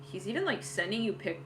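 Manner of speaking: usual speaking voice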